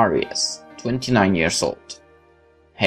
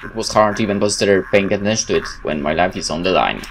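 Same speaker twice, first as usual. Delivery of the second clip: dramatic first-person game narration, louder than chat; story narration; 4 dB louder than usual. Acted. Player reading a game's story aloud, dramatic narration. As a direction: tell it like a dramatic tale.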